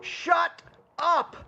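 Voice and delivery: high, sharp bark of "Shut up!" imitating the sales trainer; sudden shout. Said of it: "let me move the microphone away".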